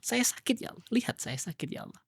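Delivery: pleading prayer, pitched high; doa sambil menangis. Pretend. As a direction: pour out grief to God, half-acted. (hamba mengadu kepada Allah dengan sedih)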